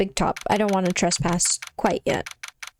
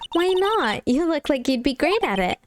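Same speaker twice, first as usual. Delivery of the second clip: high, excited sidekick voice; eager sidekick; 6 semitones higher than usual. Acted. Sidekick to Nick on the circus stage, high and eager. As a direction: pitch it up, egging a partner on.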